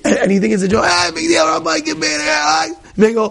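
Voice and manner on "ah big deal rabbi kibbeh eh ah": higher mock scoff at the rabbi; dismissive scoff. Congregant mocks the kibbeh lesson, scoffing high. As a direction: brush it off, hammed-up.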